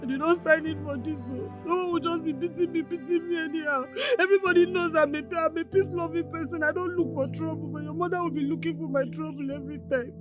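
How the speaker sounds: tearful complaint; crying. Acted. Wife complaining to husband about his mother, crying. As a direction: protest through sobs. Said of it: "Stop crying now".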